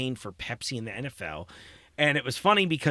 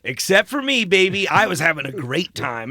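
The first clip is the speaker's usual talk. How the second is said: gleeful boast; 6 dB louder than usual. Retold or imitated. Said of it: "I'm always like".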